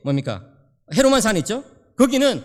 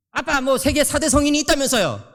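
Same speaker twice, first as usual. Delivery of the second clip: higher-pitched imitation of a son challenging his dad; retold child's protest; arguing child; 5 semitones higher than usual. Son questions his father about religion, mock arguing. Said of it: "막 이러면서 막 따지는 거예요".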